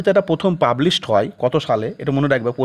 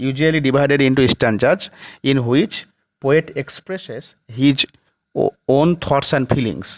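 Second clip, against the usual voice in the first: slow, word by word, for students to write down; slow dictation; much slower than usual. Shown as a demonstration. Teacher dictating a definition to the class, slowly. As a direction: dictate each word so they can copy it.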